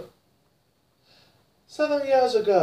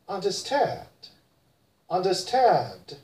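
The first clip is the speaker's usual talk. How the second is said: British understand, no r, slower; British accent. Shown as a demonstration. Teacher contrasts British understand: British accent. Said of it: "In British".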